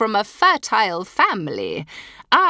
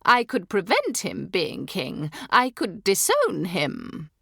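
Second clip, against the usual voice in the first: cold threat; 3 semitones higher, 3 dB louder than usual. Acted. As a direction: threaten to disown her son. Duchess threatens.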